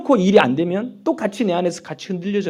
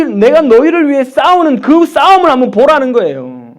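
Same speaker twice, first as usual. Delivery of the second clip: loud, high, urgent exhortation; full-force preaching; 9 semitones higher, 11 dB louder than usual. Acted. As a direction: drive it home to the congregation. (힘껏 외치는 설교)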